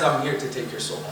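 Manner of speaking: low, soft menace; ominous announcement. Acted. Creature come to take the soul, quiet and ominous. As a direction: drop low and quiet for the threat. Death creature addresses the dying.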